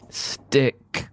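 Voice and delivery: a high, drawn-out stick; sticky sound effect. A narrator's reading. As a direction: make the word sound like it glues.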